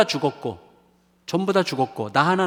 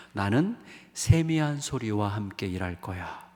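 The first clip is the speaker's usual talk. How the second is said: gentle voice of God; 4 semitones lower than usual. Acted. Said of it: "라고 말씀하시는 거예요".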